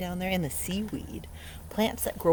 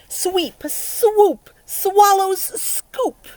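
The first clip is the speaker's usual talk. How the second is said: high, louder, drawn-out chant; sing-song rhyme; 13 semitones higher, 12 dB louder, much slower than usual. Acted. Reading the swallow rhyme to children, high chant. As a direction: sweep up and swoop like a bird. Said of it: "reading rhyme with performance".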